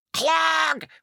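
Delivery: Clog! said heavy and high, dragged like three syllables; clog as a jammed sound. Shown as a demonstration. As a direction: make Clog! sound like it's jamming up the works. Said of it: "it almost comes off as three syllables".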